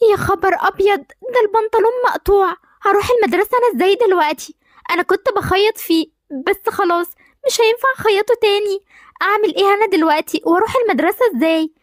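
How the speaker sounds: put-on a girl panics finding her trousers torn; panicked dismay. Girl alone finds her school trousers torn, panicked.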